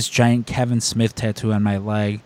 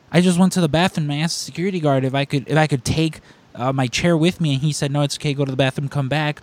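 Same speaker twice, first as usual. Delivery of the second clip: fast, raised-pitch protest; fake indignant rant; 3 semitones higher, faster than usual. Fan spins a fake story to the usher, mock indignant. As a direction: rattle off a put-on complaint. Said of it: "I just fake lose it".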